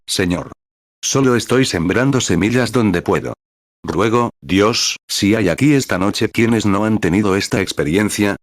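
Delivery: earnest pastoral prayer; preacher prays over the Chicago congregation. Acted. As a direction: plead with God for the people.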